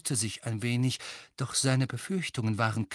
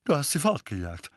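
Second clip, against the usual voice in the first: loud hearty bluster; father loudly praises his son; 5 semitones higher, 5 dB louder than usual. A narrator's reading. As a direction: steer the talk loudly. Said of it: "sagte Onkel Vernon laut".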